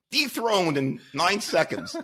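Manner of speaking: cracking up mid-sentence; high-pitched laughter breaking through words; laughing. Real, not acted. Laughing at the absurd law.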